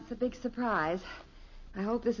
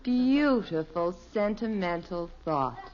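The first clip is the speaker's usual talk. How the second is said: sarcastic; 3 semitones lower, 4 dB louder than usual. Acted. Wife mocks husband's flower box idea.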